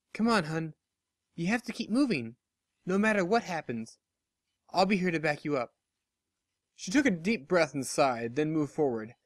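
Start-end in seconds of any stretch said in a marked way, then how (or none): 0.1-5.7 lightly voiced comforting friend. Barry urging nervous Lyra to keep moving, gently reassuring.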